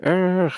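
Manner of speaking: mock angry "ugh"; angry groan. Someone comes to you angry, exasperated groan. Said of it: "angry, angry, angry".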